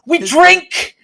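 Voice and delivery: rallying shout. Acted. Continuing the rally chant.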